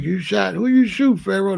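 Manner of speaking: mock disbelief. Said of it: "They be like".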